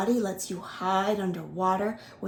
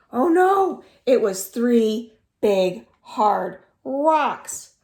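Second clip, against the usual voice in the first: dramatic surprise; 2 semitones higher, 7 dB louder, slower than usual. A narrator's reading. Dramatic story twist.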